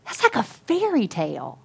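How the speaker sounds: lightly acted disbelief, pitch swooping up; mildly incredulous quote; retold amazement. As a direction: imitate a friend marvelling. Retold friend's amazed reaction.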